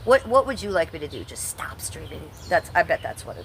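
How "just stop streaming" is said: much softer, slow sarcastic throwaway; soft, slow deadpan mock suggestion; sarcastic aside. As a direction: drop it under your breath, slowly. Sarcastic guess at troll's advice.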